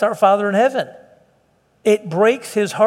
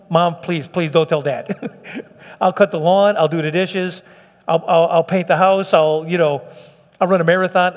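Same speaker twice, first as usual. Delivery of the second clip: put-on child begging. Pastor as a boy begging Mom not to tell Dad, mock pleading. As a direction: play the scared boy bargaining with Mom.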